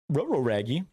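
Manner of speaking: mock Scooby-Doo growl, lightly voiced; goofy dog voice mangling the r's. Player joking about danger, in a lightly voiced Scooby-Doo. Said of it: "Scooby-Doo impression".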